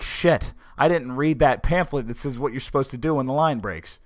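sudden dread, caught unprepared; panicked thought. Retold or imitated. Panicked inner reaction to prank.

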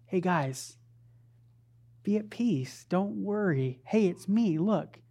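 softly voiced, unhurried comforting; gentle reassurance. Preacher as Jesus calming terrified disciples, gentle reassurance. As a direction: settle frightened friends with small, quiet phrases.

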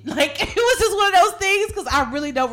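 laughing at herself. Real, not acted. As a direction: laugh at her own blackout.

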